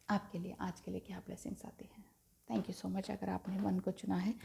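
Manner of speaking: nearly whispered, absorbed in the cards; hushed card reading. Real, not acted. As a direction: speak very quietly, half to yourself. Hushed talk while drawing cards.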